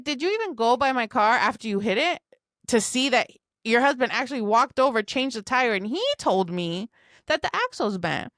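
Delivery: mildly heated, incredulous questioning; indignant challenge. Retold or imitated. Woman challenging neighbor's wife about the car, indignant. Acting out her angry comeback.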